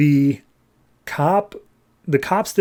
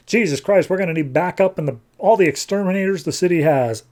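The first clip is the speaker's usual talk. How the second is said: higher-pitched, mildly alarmed captain; mock exasperation; 4 semitones higher, faster than usual. Captain calls for backup against rats, in mild mock exasperation. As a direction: exclaim it, then hurry through the list. Captain reacts to rat army.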